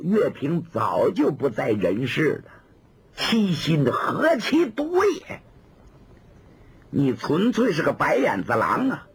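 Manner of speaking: cold mocking tirade; young woman mocking a traitor; sneering scolding. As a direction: scorn him with a cold laugh in the voice. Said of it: "冷笑了一声".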